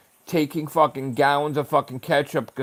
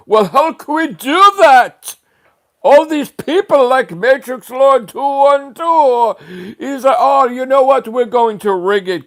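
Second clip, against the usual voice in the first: high, slow, far-off mocking voice of a smug insider; mocking preppy site staff; 5 semitones higher, 8 dB louder, slower than usual. Vlogger mocking the trophy site staff's rigging plan, high and slow. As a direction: sneer out their plan like a smug frat boy, slow and high.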